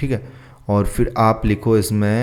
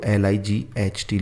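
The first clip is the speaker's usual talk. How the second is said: spelling out letters; 5 dB quieter, slower than usual. Shown as a demonstration. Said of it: "आप लोग light भी लिख सकते हो".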